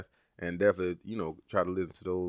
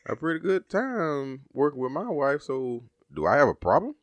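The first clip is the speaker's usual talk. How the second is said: surprised; 7 semitones higher than usual. Retold or imitated. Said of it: "I was like".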